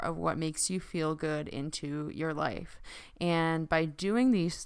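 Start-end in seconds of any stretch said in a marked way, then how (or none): 3.2-4.6 talking with aligners in; speech thick from dental aligners. Real, not acted. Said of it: "sorry, I have my aligners in again".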